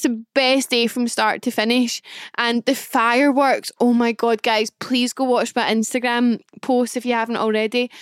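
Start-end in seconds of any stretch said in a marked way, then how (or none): none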